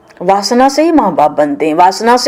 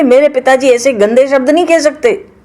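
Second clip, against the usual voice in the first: indignant Sati; 5 semitones higher, 4 dB louder than usual. Acted. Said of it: "सती जी कहते".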